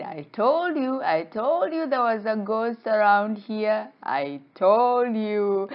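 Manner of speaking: high, insistent scolding; told-you-so. Acted. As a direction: drag out the last phrase, vindicated. Fish crows about its ghost warning.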